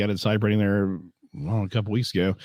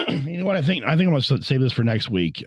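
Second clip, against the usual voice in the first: a hoarse, worn-out voice; 4 semitones higher than usual. Real, not acted. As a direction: voice going, hoarse and strained. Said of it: "I'm losing my voice pretty bad".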